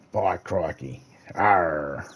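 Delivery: mock pirate growl on the end; lightly voiced Australian pirate. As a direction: play an old shipping-days pirate. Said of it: "pirate ships and shipping days".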